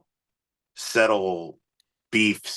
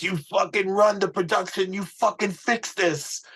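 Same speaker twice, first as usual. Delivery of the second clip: much higher put-on angry voice, slowing at the end; imitating Johnny; 13 semitones higher than usual. Manager ordering the label rep to fix it, high put-on voice. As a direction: bark orders in a raised, odd voice. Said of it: "he goes".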